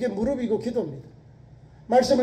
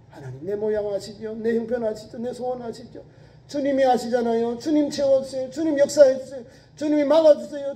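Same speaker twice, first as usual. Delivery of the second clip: building prayer. Acted. Voicing a believer's prayer.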